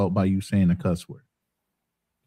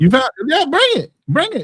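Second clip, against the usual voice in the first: much higher, eager calls to bring it; excited urging; 3 dB louder than usual. Real, not acted. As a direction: pitch jumps up, hungry to see it. Urging him to show it.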